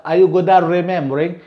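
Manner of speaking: "at remembering" with the T melting into R; quick "at remembering", R replacing the T. Shown as a demonstration. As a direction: link "at" into "remembering" without a T. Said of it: "So also you can say".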